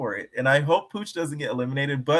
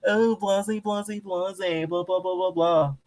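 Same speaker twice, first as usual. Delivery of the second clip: mocking statement; 6 semitones higher, slower than usual. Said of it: "she gonna put out a big statement".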